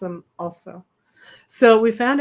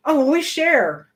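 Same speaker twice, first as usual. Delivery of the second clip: quoted boss guy; 5 semitones higher, 3 dB louder than usual. Retold or imitated.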